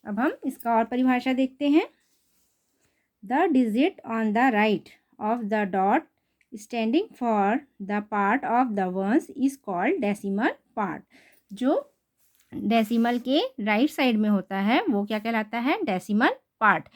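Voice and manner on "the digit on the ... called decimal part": very slow, word-by-word textbook reading; reading a definition. Shown as a demonstration. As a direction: read the definition out slowly for the class. Reads textbook definition aloud. (बहुत धीमे, शब्द-शब्द परिभाषा पढ़ना)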